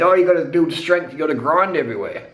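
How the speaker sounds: lightly put-on know-it-all voice; a hint of parody in the voice; mocking naysayers. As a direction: imitate dubious advice-givers. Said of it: "And people say".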